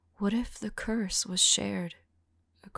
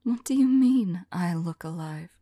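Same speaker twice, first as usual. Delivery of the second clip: louder, baffled protest breaking the whisper; incredulous; 7 dB louder than usual. Acted. Vampire told she looks alive, louder incredulous protest. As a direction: push back in disbelief.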